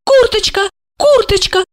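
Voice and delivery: very high tipsy calling; drunken repetition. A narrator's reading. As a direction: repeat it like a drunk broken record. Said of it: "пьяно повторяла она".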